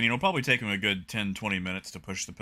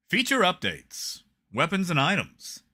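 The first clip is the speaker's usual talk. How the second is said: dramatic announcer; 7 semitones higher, 4 dB louder than usual. Shown as a demonstration. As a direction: read it like a movie trailer. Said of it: "this is for you".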